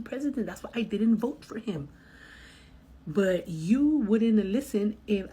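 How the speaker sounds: sarcastic retort. Retold or imitated. Driver retells own retort.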